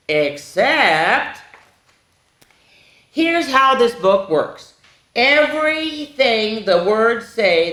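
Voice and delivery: slow, emphatic read-aloud; story reading to children. A narrator's reading. Explaining the book's rule to children, deliberate storytelling. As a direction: stretch the key words for young listeners. Reads the picture book to children.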